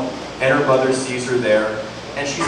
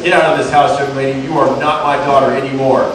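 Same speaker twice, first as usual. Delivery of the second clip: louder, furious shout at his daughter; furious father; 7 dB louder than usual. Acted. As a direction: throw her out in a rage. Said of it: "Isabella's dad gets super mad and says".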